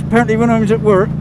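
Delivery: a light Cornish twang on apparently; slurred Cornish work voice; Cornish accent. Shown as a demonstration. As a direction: let the Cornish come through. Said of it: "it all goes a bit like that".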